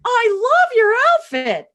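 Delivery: high, loud, drawn-out squeal; gushing compliment. Retold or imitated. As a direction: imitate an over-excited server gushing. Acts out server's gushing compliment.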